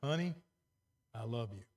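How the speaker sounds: sincere demonstration of affection. Shown as a demonstration. Husband to wife showing tone changes meaning, sincere. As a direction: say it tenderly, dropping low and soft at the end. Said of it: "the insincere tone the second time".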